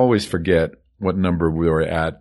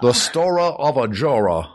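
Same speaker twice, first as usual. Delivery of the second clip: trailer voice; 6 semitones higher than usual. Shown as a demonstration. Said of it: "repeats trailer-style".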